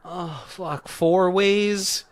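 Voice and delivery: rising to a high, loud protest; mock dismay. Benny hearing the money split, mock dismay. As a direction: balk loudly at the bad deal.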